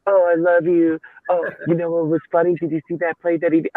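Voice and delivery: a hammed-up gushing buddy, quickening at the end; mock fawning. Mocking a coach gushing to his rival after a loss, hammed-up and gushing. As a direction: gush over the rival coach like an old friend, mocking it. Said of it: "go out there".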